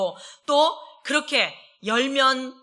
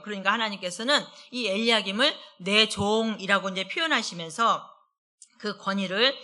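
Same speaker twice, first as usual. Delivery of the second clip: normal talking voice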